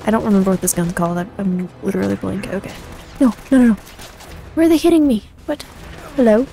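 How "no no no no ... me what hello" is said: raised, urgent begging; a touch of panic, higher and insistent; panicked pleading. Real, not acted. Player begging attackers not to kill them, panicked.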